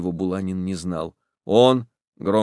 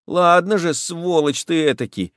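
put-on raised angry boy's voice; suddenly furious; 7 semitones higher than usual. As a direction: snap back in sudden rage. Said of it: "вдруг рассвирепев".

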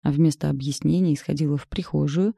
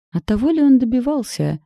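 much higher and louder, distorted mimic of the daughter; mocking mimicry; 8 semitones higher, 5 dB louder than usual. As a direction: parody her words back at her. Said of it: "исказив голос, передразнила". (передразнивая искажённым голосом)

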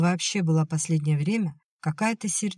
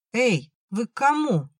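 high calling shout; 7 semitones higher than usual. A narrator's reading. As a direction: call out to the stranger at the gate. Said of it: "крикнула Оля".

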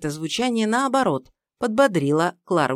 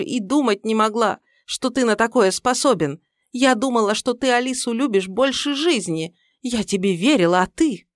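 wounded accusation; 6 semitones higher, 4 dB louder than usual. Acted. Mother-in-law accuses, hurt.

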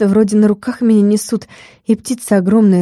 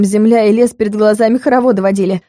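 ordinary delivery, nothing marked

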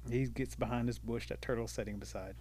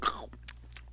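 voiceless mouth-made gulp; imitated catching noise; 4 dB quieter than usual. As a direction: mimic fruit landing in an open mouth. Imitates turtle catching persimmons.

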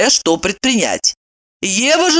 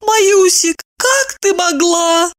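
higher, slow reproach; reproachful, high and slow; 12 semitones higher, slower than usual. A narrator's reading. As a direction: draw it out, reproaching a friend. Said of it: "с укором посмотрела на Маю".

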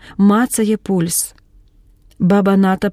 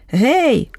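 short call, pitched higher; 5 semitones higher than usual. A narrator's reading. Polya calls to Khotynskyi from behind, higher. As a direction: call out hey to catch his attention. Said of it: "гукає".

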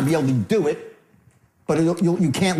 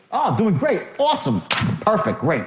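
matching upbeat mood; 4 semitones higher than usual. Acted. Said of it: "match the guy".

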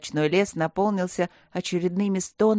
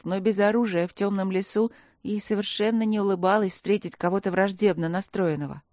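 ordinary delivery

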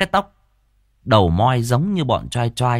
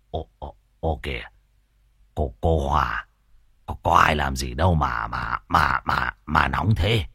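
low, soft, stuttering man's voice; stammering fright; 8 semitones lower, 3 dB quieter than usual. Acted. Frightened Tam stammering at the angry Hòa. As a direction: stammer it out, scared stiff. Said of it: "miệng lắp bắp".

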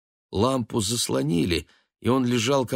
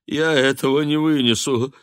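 rising, louder self-pitying wail; wailing lament; 7 semitones higher, 3 dB louder than usual.

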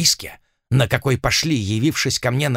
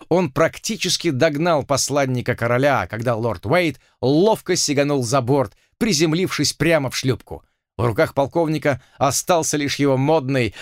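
ordinary delivery, nothing marked

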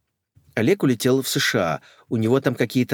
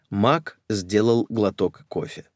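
plain reading voice

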